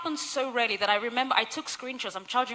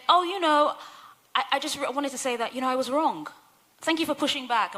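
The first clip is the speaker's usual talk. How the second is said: lightly voiced higher-pitched apology; apologetic woman, retold; 4 semitones higher than usual. Woman back to admit she was wrong, mildly apologetic.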